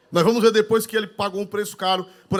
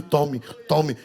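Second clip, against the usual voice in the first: usual speaking voice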